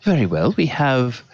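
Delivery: a hint of an eager, fussy waiter; lightly voiced servant listing desserts; eager server. Server eagerly offering puddings to the lady.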